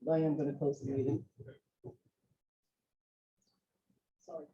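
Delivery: talking while choking. Real, not acted. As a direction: push the words out through choking. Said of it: "I can't talk because I'm choking here".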